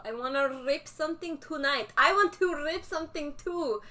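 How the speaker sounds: mock Russian accent, dropped articles; hammed-up Russian accent for the stream. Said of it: "talking in a Russian accent".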